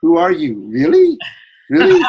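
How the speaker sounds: put-on ditzy Valley Girl, pitch shooting up; Valley Girl accent. Shown as a demonstration. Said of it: "say it with, like, a Valley Girl accent".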